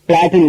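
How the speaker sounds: PLAIT said "plat", the I silent. Shown as a demonstration. Teacher showing learners the word plait, silent I in பிளாட்னு. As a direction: say பிளாட்னு with no I sound. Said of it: "உச்சரிக்கணும்".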